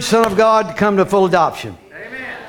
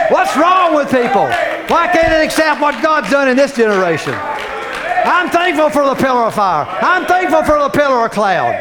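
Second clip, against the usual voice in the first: preaching shout; 2 semitones higher than usual. Real, not acted. Preacher exclaiming to the congregation.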